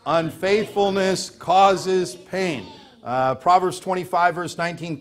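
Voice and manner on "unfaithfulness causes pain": preacher hammering home the point slowly; slow emphatic. Shown as a demonstration. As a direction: drive home causes with weight. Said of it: "One more time".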